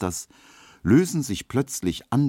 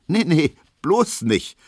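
out of breath; 10 semitones higher, 5 dB louder, slower than usual. Acted. Emma out of breath after dancing.

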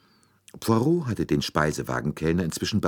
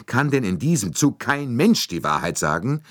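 higher, louder exasperated burst; impetuous outburst; 9 semitones higher, 5 dB louder than usual. Acted. Bouc bursting out at the lying passengers, impetuous. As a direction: explode at all the lying. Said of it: "brach Monsieur Bouc ungestüm los".

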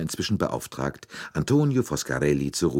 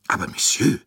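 high, loud protesting Monsieur; protesting cry; 8 semitones higher, 5 dB louder than usual. A narrator's reading. Bouc objects to the colonel's threat, high protesting cry. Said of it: "rief Monsieur Bouc protestierend".

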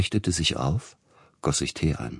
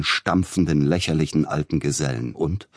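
ordinary delivery, nothing marked

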